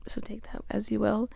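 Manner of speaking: conspiratorial whisper, knowing; whispered aside. Real, not acted. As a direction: lean in and whisper it like a secret. Suggestive aside to listeners.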